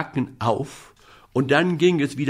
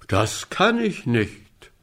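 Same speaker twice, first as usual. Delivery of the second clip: kind moon; slower than usual. Acted. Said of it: "sagte der gute Mond".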